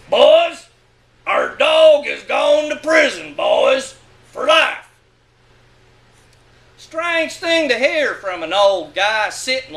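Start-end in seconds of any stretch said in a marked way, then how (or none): 0.1-4.9 retold tearful announcement. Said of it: "he said".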